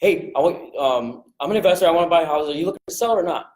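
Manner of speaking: a bit fast and pushy, right back at him; no-nonsense investor pitch; blunt and direct. Shown as a demonstration. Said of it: "Right back at him".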